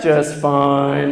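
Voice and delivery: loud, very low, droning voice; house-shaking bass child. Pretend. Child coming home from school to Mom, booming bass. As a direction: boom it out deep and loud. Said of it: "our children would shake the house".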